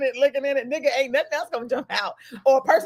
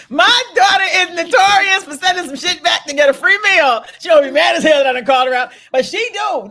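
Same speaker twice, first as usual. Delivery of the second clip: laughing shout; 5 semitones higher, 7 dB louder than usual. Real, not acted. Laughing call-out of daughter.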